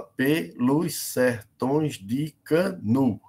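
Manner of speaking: slow, each syllable set apart, ending on the stressed NU of "Canu". Shown as a demonstration. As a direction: split "pelos sertões de Canu" into separate counted beats. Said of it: "só vai contar até aí". ("pelos sertões de Canu" escandido devagar, parando no NU)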